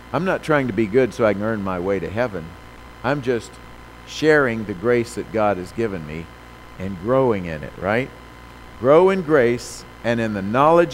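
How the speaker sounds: loud, rising preacher questions; preaching. Acted. Preacher urging the congregation to grow in grace, loud. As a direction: call out to the congregation.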